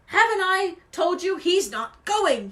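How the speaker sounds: loud, high-pitched indignation; angry hiss. A narrator's reading. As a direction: spit it out in fury. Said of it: "he hissed".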